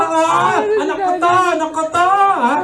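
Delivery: lightly voiced high bragging mother; boasting mother. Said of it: "Pinagyayabang talaga".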